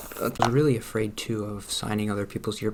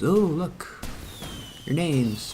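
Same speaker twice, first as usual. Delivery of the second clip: excited; 6 semitones higher, much slower than usual. Pretend. Showing viewers their names.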